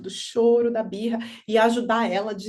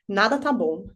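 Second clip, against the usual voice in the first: put-on sulky child; 2 semitones lower than usual. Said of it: "a carinha dele fica assim".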